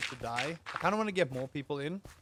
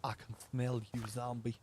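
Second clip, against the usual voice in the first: slow, put-on Southern drawl, mock-teasing; lazy Southern drawl, hamming it up; Southern accent; 3 semitones lower, slower than usual. Streamer taunting game zombies, slow mock Southern accent. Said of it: "I have to go southern with that".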